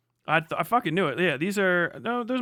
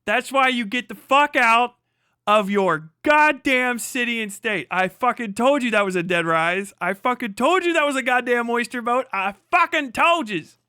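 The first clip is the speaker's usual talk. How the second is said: loud, gloating shout, pitch up; triumphant yelling; 4 semitones higher, 3 dB louder than usual. Real, not acted. Streamer gloating to chat about the boat, triumphant shout. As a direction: crow that you were right, full voice.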